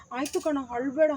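gentle, understated comfort; affectionate. Shown as a demonstration. Director models comforting a crying boy, affectionate. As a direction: soothe a crying friend lovingly. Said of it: "ಪ್ರೀತಿಯಿಂದ ಹೇಳು".

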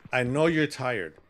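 slow soft reassurance; tender, slow; soothing. Real, not acted. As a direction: coax her gently to sleep. Soothing partner to bed.

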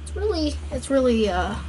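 put-on playful Boston accent; lightly put-on Boston accent. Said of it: "like a Boston accent for the fun of it".

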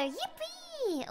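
excited yell. Retold or imitated. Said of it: "screaming that every, every three seconds".

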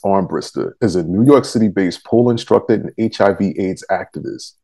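measured announcer read of a guest teaser; scripted show intro. Acted. Reads the episode teaser.

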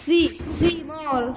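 ثي sounded out slowly with tongue between teeth, then ثمار; sounding out. Shown as a demonstration. Teacher sounding out ثمار for the kindergarten class. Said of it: "طيب سورة ايه؟".

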